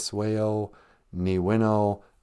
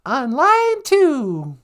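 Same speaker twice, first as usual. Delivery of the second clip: radio host voice; 6 semitones higher, much slower than usual. Acted. Radio host mock phone line.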